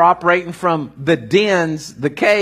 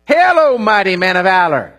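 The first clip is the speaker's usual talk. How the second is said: angel's proclamation; 4 dB louder than usual. Acted. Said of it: "and he says".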